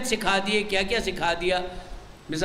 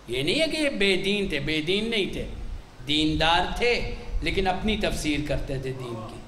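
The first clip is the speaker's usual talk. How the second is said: ordinary delivery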